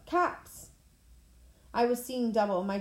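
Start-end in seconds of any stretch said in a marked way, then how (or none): 0.1-0.7 yelling warning. A narrator's reading. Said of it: "Annabeth yelled".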